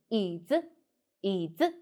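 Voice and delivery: 椅 dipped low, 子 lightly lifted; neutral after third. Shown as a demonstration. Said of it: "the neutral tone is higher".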